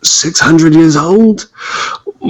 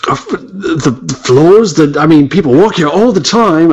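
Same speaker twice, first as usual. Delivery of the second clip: put-on British accent slipping; 3 semitones higher than usual. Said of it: "I'm losing my accent".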